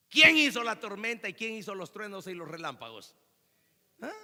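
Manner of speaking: loud burst on the first words; thundering challenge. Real, not acted. Preacher challenges a congregation afraid of thunder, thundering. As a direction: fire off the question like a challenge.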